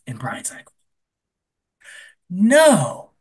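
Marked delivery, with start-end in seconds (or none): 2.3-3.1 shocked no. Retold or imitated. Brian reacts to pregnancy news.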